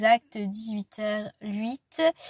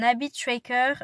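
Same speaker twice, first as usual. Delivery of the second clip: English term with a French accent; English loanwords pronounced the French way; 3 semitones higher, slower than usual. Real, not acted. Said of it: "Désolée pour mon accent anglais".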